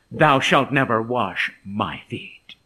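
slow, low, firm refusal; self-assertive. Acted. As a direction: refuse firmly, word by word. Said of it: "notice Peter's self-assertiveness".

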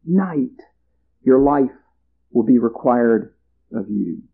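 God pronouncing judgment on the farmer, slow and solemn. Acted. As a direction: pronounce the sentence gravely, slowing on this very night. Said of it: "the voice of God the Creator that says".

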